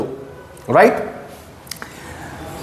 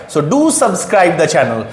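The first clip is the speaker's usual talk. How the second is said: slow appeal; 3 semitones lower, much slower than usual. Real, not acted. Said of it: "asks viewers to subscribe".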